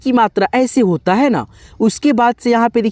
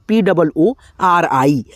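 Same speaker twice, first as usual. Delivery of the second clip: spelling out letters; 3 semitones lower, much slower than usual. Shown as a demonstration. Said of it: "जैसे".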